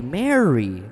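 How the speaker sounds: low, tender naming; gentle calling by name. Retold or imitated. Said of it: "his tone of voice".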